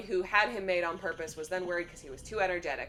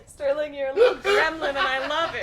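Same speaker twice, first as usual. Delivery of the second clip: high laughing fond jab, louder; laughing teasing; 9 semitones higher, 10 dB louder than usual. Real, not acted. Teasing Sterling in the chat, laughing loud and high. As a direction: laugh it out at him.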